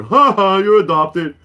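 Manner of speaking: loud mocking ha-ha, starting high; mock laughing jeer; imitated brother's taunt. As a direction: tease like a gloating brother. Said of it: "was with my brother".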